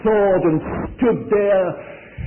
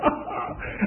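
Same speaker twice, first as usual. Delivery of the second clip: giant's mocking laugh; 10 dB quieter than usual. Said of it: "And he's laughing at him".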